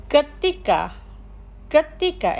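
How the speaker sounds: careful, measured vocabulary model; slow pronunciation. Shown as a demonstration. Teacher models words for listeners to repeat, slowly. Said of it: "Los pronunciaré lentamente".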